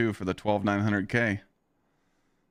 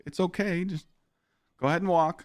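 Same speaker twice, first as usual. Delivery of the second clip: overly polite; 5 semitones higher than usual. Pretend. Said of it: "It's like".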